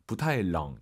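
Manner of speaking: 冷 cut off on a low half third tone; 冷 dips low without rising back. Shown as a demonstration. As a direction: keep 冷 low and stop it short. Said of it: "이렇게 반삼성으로 딱 끊어줘도 됩니다".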